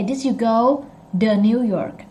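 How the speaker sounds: "to" softened into duh; American reduced "to". Shown as a demonstration. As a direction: turn "to" into a voiced, unstressed duh. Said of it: "Or you say".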